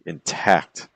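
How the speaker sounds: "intact" with the weight on "-tact"; light "in", stressed "TACT"; iambic stress. Shown as a demonstration. Teacher giving students an iambic example word, second-syllable stress. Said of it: "some words that are iambic".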